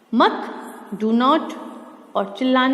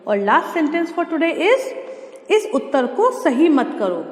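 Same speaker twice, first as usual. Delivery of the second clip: slow announcement; 4 semitones higher, slower than usual. Shown as a demonstration. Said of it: "slow announcement".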